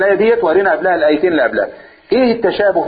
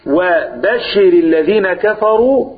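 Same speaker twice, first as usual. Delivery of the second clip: sarcastic irony; much slower than usual. Shown as a demonstration. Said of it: "بأسلوب فيه تهكم وسخرية".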